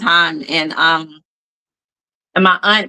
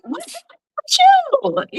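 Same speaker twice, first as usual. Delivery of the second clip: mock exasperated parent; much slower than usual. Parent scolding dramatic daughter.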